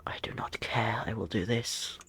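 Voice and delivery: whispered under her breath; defiant whisper to herself. Real, not acted. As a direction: say it to yourself, barely voiced. Muttered to self.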